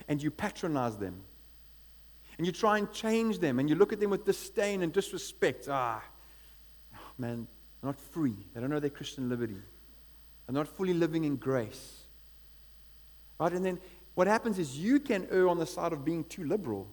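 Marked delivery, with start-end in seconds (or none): 5.7-12.0 lower, condescending sigh of pity; patronizing. Retold or imitated. Strong Christian pitying the weak, lower condescending tone. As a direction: talk down to a weaker brother. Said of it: "strong Christian patronizing weaker".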